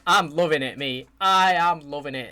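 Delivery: loud keen take. Real, not acted. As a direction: say it like you mean it. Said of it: "I can't even say it enough".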